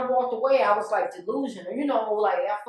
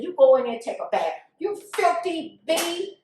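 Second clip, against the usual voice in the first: retold angry order; 6 semitones higher, 4 dB louder than usual. Man slaps her and orders her to bathe, angry.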